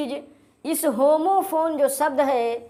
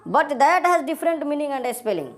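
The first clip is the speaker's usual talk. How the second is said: slow dictation; much slower than usual. Shown as a demonstration. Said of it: "ये वाला भी important line है".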